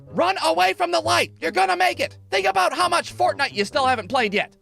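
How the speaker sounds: hint of a kid comforting a teammate; lightly acted pleading kid. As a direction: beg him to stay alive. Left fielder cradling the injured kid.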